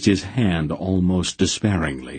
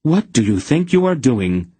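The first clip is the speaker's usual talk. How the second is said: raised, higher angry question; angry scolding; 7 semitones higher, 4 dB louder than usual. A narrator's reading. Aunt Paul scolds the reckless smith, loud and angry. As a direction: scold him hard.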